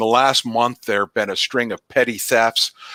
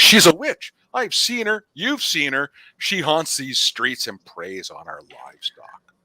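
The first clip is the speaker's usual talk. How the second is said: high, rising alarm that fades; frightened townsfolk gossip; accusing villager; 5 semitones higher than usual. Acted. Another villager accusing the witch.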